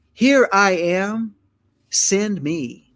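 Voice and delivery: proclaimed "Here I am" with weight on each word; eager answer. Acted. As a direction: step forward and volunteer boldly. Isaiah answers the call.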